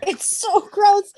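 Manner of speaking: very high, slow squeal of disgust; long high-pitched "ew" tone; grossed out. Real, not acted. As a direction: draw it out in squeamish revulsion. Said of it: "made me feel so icky".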